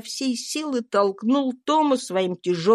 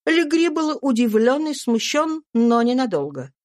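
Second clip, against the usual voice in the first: ordinary delivery, nothing marked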